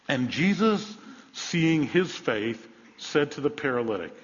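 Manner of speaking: slow, drawn-out reading of seeing his faith; deliberate slow scripture read; misquoted reading. Shown as a demonstration. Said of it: "Is that what it says? No".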